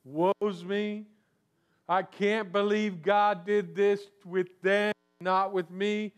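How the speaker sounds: mock self-pitying whine, slowed; lightly voiced woe-is-me complaint; whiny pity party. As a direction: whimper it like a sulking child. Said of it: "We throw a pity party".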